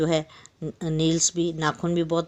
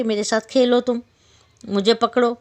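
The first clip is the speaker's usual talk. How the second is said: high, playful begging little fly; wheedling fly; 4 semitones higher, 4 dB louder than usual. Acted. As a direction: coax the lion to play, higher and louder. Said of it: "मचल कर बोलने लगी". (मचलती हुई छोटी मक्खी की आवाज़)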